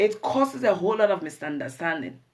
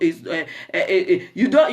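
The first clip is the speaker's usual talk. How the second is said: laughing; 3 semitones lower than usual. Real, not acted. Laughing mid-sentence.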